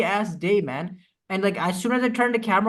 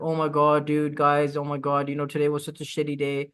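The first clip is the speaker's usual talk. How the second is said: lower, mock-mournful whining chatter; mock sob story; 5 semitones lower than usual. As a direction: parody a viewer moaning about their bad day. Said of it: "start telling me their sob story".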